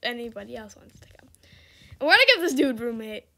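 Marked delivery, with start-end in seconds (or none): 0.0-1.3 hushed unvoiced whisper, softer. Real, not acted. Streamer whispering to viewers while opening the door. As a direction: whisper it so nobody hears.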